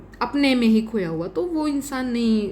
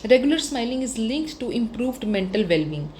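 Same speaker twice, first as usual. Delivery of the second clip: slow dictation; much slower than usual. Shown as a demonstration. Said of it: "dictating model lines".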